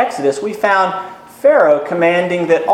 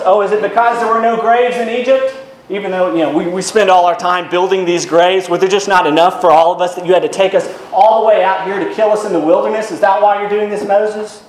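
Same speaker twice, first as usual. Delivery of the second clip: higher, mocking sarcastic whine; 3 semitones higher than usual. Shown as a demonstration. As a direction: sneer it at Moses like a complaint. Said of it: "you can hear the sarcasm in their voice".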